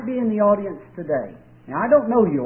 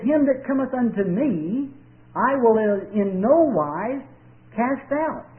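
slow, solemn higher scripture quote; quoting God; 4 semitones higher, slower than usual. Retold or imitated. Preacher quoting God's words to listeners. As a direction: intone God's promise slowly. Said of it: "God says".

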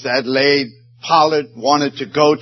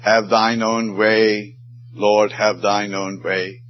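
tender hymn words; 3 semitones lower, slower than usual. Acted. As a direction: breathe the hymn line like a prayer. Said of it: "she wrote that beautiful hymn".

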